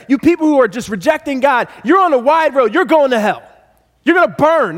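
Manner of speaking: street preacher yelling. Retold or imitated. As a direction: thunder at the sinners like a street-corner preacher. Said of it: "you might hear them yelling from a street corner".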